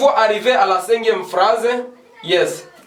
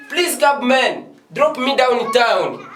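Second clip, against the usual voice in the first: higher, slow showcase phrase with a laugh; model sentence; 6 semitones higher, slower than usual. Shown as a demonstration. Teacher proudly modelling the better sentence, high and slow. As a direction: lift it up and stretch it as the good example. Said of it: "That is a good sentence".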